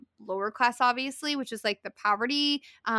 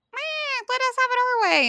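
put-on much higher, fast bratty kid voice; whiny child voice; 13 semitones higher than usual. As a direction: whine it like a spoiled kid. Childish Israel answering God.

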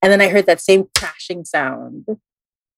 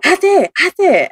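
higher child's call, lightly voiced; 11 semitones higher than usual. Ghost child calling to the reader, a light high imitation. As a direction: call out high like a small lost kid. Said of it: "he was, like, going".

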